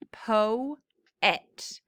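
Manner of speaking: po-et, broken between "po" and "et"; syllable split. Shown as a demonstration. Teacher showing the class where "po-et" breaks. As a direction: say "po", then "et", apart. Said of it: "It breaks right here".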